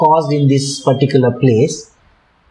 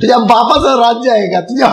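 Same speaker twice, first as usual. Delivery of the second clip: mock Marathi abuse; 2 semitones higher, much faster than usual. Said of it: "he's talking like this".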